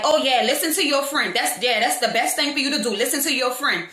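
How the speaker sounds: mocking imitation of a goading woman; lightly acted goading; retold taunt. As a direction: needle them, imitating a sarcastic rival. Retells the other woman's taunt.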